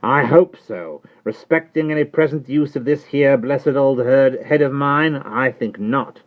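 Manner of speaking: high, loud rough servant voice; Jerry Cruncher. Acted. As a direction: answer her like a loyal, plain-spoken servant. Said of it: "returned Mister Cruncher".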